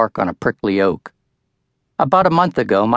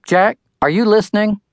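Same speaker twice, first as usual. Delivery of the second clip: impatient; 11 semitones higher than usual. A narrator's reading. Mother getting son's attention.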